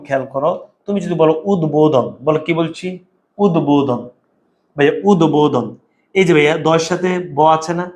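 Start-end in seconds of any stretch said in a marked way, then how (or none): 3.4-4.0 উদ্বোধন with a clearly sounded b after the d. Shown as a demonstration. Teacher shows the b-fola is pronounced, উদ্বোধন with audible b. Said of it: "তাইলে ব ফলার উচ্চারণ হয়েছে". 5.1-5.7 উদ্বোধন with a clearly sounded b after the d. Shown as a demonstration. Teacher shows the b-fola is pronounced, উদ্বোধন with audible b. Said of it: "তাইলে ব ফলার উচ্চারণ হয়েছে".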